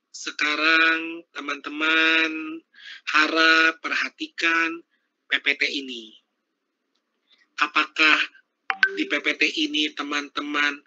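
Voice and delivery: painfully slow, drawn-out monotone; too slow. Shown as a demonstration. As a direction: drag every word out slowly on an even pitch. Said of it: "tidak kelambatan".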